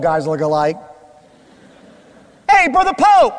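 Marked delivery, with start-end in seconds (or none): 2.5-3.3 mistaken greeting. Retold or imitated. Greeting mistaken bald man.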